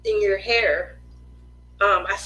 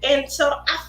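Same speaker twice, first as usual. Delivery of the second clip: mock hurt; 5 semitones higher than usual. Mock hurt complaint about son.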